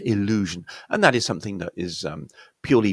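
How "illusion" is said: "illusion" as ih-LOO-zhun; clear I sound. Shown as a demonstration. Teacher models the vowel, "illusion" with clear I. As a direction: open "illusion" on a distinct short I. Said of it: "clear I sound".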